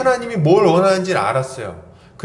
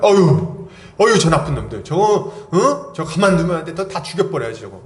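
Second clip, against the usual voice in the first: indignant grumbling. Acted. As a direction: act out an exasperated TV viewer, mildly hammed-up. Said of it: "아주 막 화가 나잖아요". (뉴스 보며 분통 터뜨리는 흉내)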